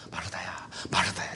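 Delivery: low, very soft name call; hushed, tender reproof; gentle admonishing. Retold or imitated. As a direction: plead quietly with someone dear. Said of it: "안타까워서 타이르는 거야".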